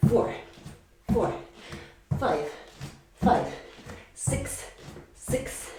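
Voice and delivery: counting while panting; breathless counting through the jumps; out of breath. Real, not acted. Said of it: "pardon me if I am panting".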